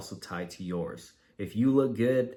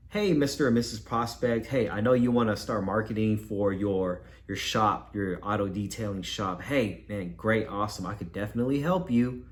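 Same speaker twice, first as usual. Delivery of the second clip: upbeat. Shown as a demonstration. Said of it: "That sounds a lot better".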